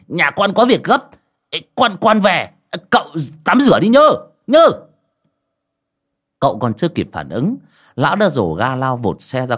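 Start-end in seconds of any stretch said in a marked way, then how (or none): 0.1-4.7 put-on hurried old man. Old man fleeing excuses.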